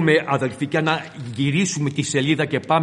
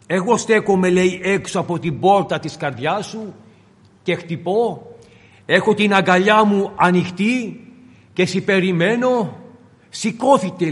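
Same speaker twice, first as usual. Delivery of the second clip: fervent preaching. Acted. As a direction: call the listener to open their heart. Preacher voices the Beloved. (ένθερμο κήρυγμα με παράκληση)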